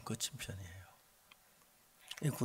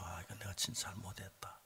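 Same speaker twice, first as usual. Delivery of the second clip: low, soft retold self-reproach; subdued owning-up; contrite admission; 3 semitones lower, 8 dB quieter than usual. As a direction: admit the fault quietly, as if to yourself. Retold change of heart.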